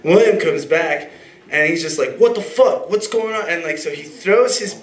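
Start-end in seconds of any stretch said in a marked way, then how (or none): 2.2-3.5 imitating a friend's outburst, high and loud; outraged disbelief. Friend coming back to find an altercation, mock outrage. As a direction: jump up in pitch, incredulous.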